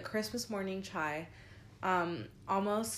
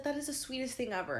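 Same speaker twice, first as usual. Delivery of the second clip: higher, quick, cooing praise; sweet gushing; 5 semitones higher, faster than usual. Retold or imitated. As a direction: imitate a girl melting at it. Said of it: "she was just so sweet".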